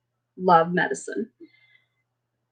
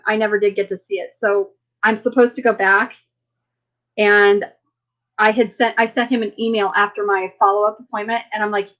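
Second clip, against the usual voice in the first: ordinary talk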